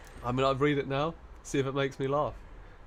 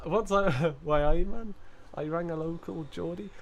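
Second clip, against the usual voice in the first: higher-pitched go at Geordie, lilting upward; attempted Geordie accent; 4 semitones higher, 4 dB louder than usual. Streamer warming up for a joke, attempted Geordie accent. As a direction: try a Geordie lilt, rising at the end. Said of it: "put on your Geordie voice now".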